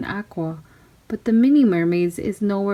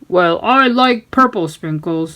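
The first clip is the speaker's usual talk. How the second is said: first mate; 4 dB louder than usual. Acted. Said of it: "said the first mate".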